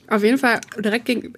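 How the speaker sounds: talking around a throat lozenge; sucking a lozenge. Real, not acted. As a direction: speak with a lozenge in the mouth. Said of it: "ich lutsch grad eine Halspastille".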